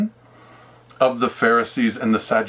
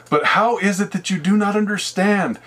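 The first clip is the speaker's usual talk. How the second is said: solemn scripture voice. Acted. Jesus explains in scripture words.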